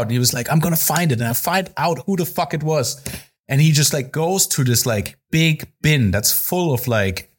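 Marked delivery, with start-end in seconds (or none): 0.5-3.0 higher-pitched mock determination; retold flip-out. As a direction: imitate a boss flipping out. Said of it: "started flipping out".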